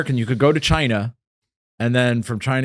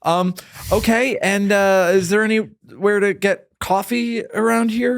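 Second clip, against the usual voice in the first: lightly voiced tourist, higher and halting; hesitant tourist; 5 semitones higher, slower than usual. Tourist asks the armed guide about coffee, hesitant. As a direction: ask gingerly, slowly, pitched a little up.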